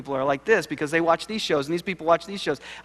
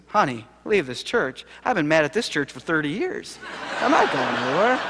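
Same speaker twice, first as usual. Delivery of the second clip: put-on wry old man. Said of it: "seventy-five-year-old Jake looks at you and says".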